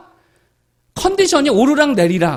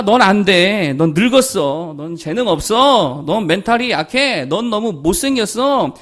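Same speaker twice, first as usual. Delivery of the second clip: mocking voice of the world; the world's put-down. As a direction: sneer at the listener as the doubting world. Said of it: "세상이 뭐라 그럽니까?".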